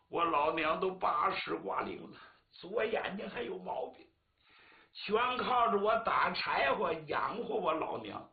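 a choked, pleading plea that rises in spots; pleading woodcutter. Acted. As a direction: beg the magistrate, near tears. Woodcutter pleads about his mother. (带哭腔的哀求)

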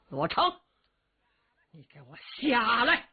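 a mild mock shout up to the platform. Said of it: "高声喊嚷". (东方伯冲帅台上的罗成喊话，略带喊意)

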